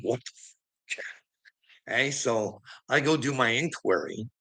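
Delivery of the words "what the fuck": breathless disbelieving whisper, slow and very soft; whispered what the fuck. Retold or imitated. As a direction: drop to a stunned whisper. Retelling his outrage at the police.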